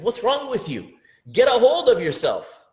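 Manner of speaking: high, loud exasperated self-scolding; scolding yourself. Pretend. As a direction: snap at yourself to pull it together. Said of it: "you're asking yourself".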